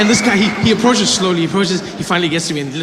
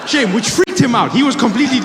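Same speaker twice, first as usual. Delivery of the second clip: ordinary talk, nothing marked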